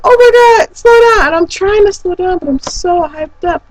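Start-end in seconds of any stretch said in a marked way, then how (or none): 0.0-1.3 high mock friend voice. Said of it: "she's like".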